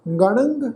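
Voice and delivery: ਗਣੰਗ said with a rising nasal ending; nasal pronunciation. Shown as a demonstration. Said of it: "ਇਹਨਾਂ ਦਾ ਨਾਸਕੀ ਉਚਾਰਨ ਕਰਾਂਗੇ ਜੀ".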